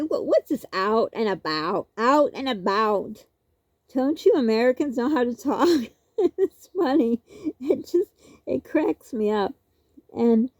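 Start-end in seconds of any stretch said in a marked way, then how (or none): 0.0-5.7 imitating Canadian cousin. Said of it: "he would say".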